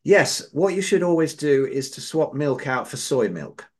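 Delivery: lightly acted self-assured pronouncement; proud. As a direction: imitate an expert proudly handing down advice. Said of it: "he said proudly".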